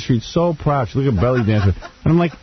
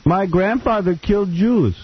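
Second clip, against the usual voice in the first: higher, slow mock German confession; mock German girl; 8 semitones higher, slower than usual. Friend voicing the German girl's confession, mock German accent.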